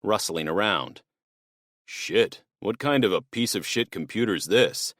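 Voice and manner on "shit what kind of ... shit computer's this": a rough intruder grumbling at a computer in the dark; lightly voiced thief, annoyed and muttering; gruff burglar. Burglar swearing at an old computer, annoyed.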